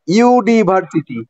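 ইউনিভার্সিটি said slowly, syllable by syllable; slow demonstration. Shown as a demonstration. Teacher repeating the example word for students, slow and clear. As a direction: draw out ইউনিভার্সিটি to show its opening sound. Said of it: "এখানে ইউ এর উচ্চারণ হচ্ছে ইউ".

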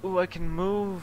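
high, loud, drawn-out amazement; discovering you can move again, slowly; surprised. Real, not acted. Surprised at regaining control.

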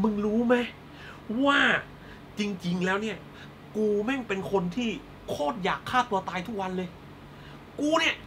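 hammed-up melodramatic confession; Thai soap heroine. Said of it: "ทำตัวเป็นนางเอกละครไทย".

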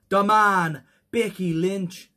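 badly faked Irish accent. Host introducing an Irish wrestler, bad Irish accent. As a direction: put on a terrible Irish accent, stretching it out. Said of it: "That was the worst Irish accent".

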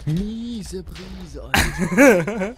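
loud exclamation. Real, not acted. Gamer joking loud exclamation.

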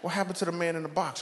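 put-on a small boy curious at a funeral; child asking grandma. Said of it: "I'm like".

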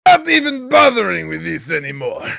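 high put-on voice; mock huffy retort. Quitting the chat argument, high mock huff.

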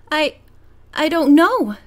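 言葉に詰まり、高めの声でためらう; faltering. A narrator's reading. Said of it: "Carol faltered".

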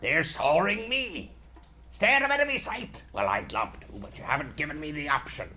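a hint of a salty pirate. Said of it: "This particular voice".

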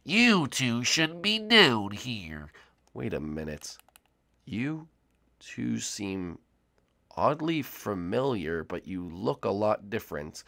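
slow, drawn-out theatrical professor voice; mysterious cartoon professor. Professor greets intruders in his watermelon base, slow and theatrical. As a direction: introduce yourself grandly, stretching the words.

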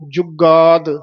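ਜੁਗਾਦ with pressed g, clean final d; clear dadda. Shown as a demonstration. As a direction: let the d sound at the end of ਜੁਗਾਦ. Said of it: "ਦੱਦੇ ਦੀ ਆਵਾਜ਼ ਆਵੇ।". (ਜੁਗਾਦ ਵਿੱਚ ਦੱਦਾ ਸਾਫ਼)

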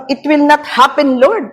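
pleading with Lord, half in panic; retold plea. Pastor recalling her second fearful plea to Lord. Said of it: "Pangalawa kong".

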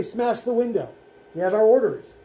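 lightly voiced commander, firm and emphatic; commanding older man. Older Nazi orders the window smashed, commanding. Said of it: "an older commanding voice say".

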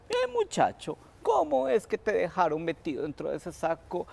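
high mocking call to the boy; Tío Coyote calls to the rabbit in the sack, high and teasing; coyote's question. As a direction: tease him from the window. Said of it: "le fue preguntando".

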